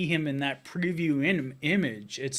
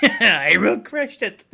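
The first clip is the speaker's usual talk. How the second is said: slow, louder barbarian threat; 7 semitones higher, 9 dB louder, slower than usual. Retold or imitated. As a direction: drag out a hammy threat. Quoting the preview villain again.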